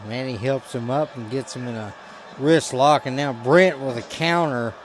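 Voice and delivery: usual speaking voice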